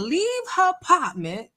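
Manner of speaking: "leave her apartment" said in a mimicked pronunciation; Nesto. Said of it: "'cause that's how Nesto says it".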